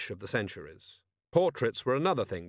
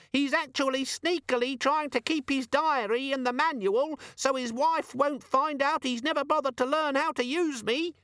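nasty demon. A narrator's reading. Organizer demon telling on Vimes nastily. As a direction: sneer like a tattletale.

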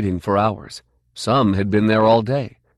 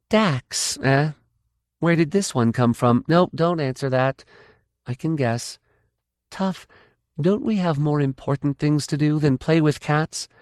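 raised, exasperated woman; impatient Guardian; 7 semitones higher than usual. Acted. Kay losing patience with Tough over the cat. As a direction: chide him, out of patience.

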